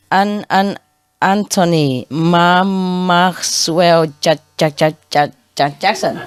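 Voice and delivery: slow, halting stutter on every name; stammering customer. Retold or imitated. Customer giving his name to the bank clerk, slow stammer. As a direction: stumble through each syllable. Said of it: "Are you, uh, a stammer?".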